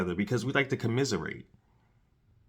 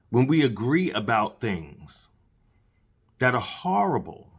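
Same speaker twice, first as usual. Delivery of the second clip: talking around a mouthful of candy. Real, not acted. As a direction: speak with candy in your mouth. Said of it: "I know I have candy in my mouth".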